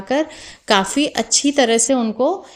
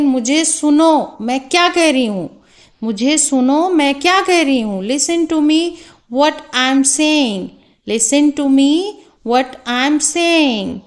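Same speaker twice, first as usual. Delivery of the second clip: firmly demanding the class's attention; insistent teacher; 3 semitones higher, slower than usual. Shown as a demonstration. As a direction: demonstrate a mild, insistent telling-off. Teacher voiced demanding pupils' attention. (ध्यान दिलाते हुए सख़्ती से)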